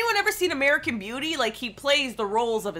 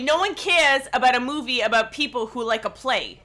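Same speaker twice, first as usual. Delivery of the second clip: put-on leaning lightly into a New York accent; emphatic dismissal with a New York accent. Movie fan dismisses the film to friends, in a New York accent. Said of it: "You sound like you're from New York".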